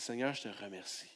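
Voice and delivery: low, hushed thanks; whispered-soft prayer. Shown as a demonstration. Preacher models a prayer of faith for the church, hushed and tender. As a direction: pray it tenderly to God.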